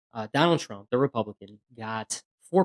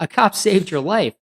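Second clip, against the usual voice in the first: slow, raised, angry correction; retold anger; 7 semitones higher, 6 dB louder, slower than usual. Cop to the man who blamed police, slow angry retort. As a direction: lay the truth on him, hard and deliberate. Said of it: "I got so mad".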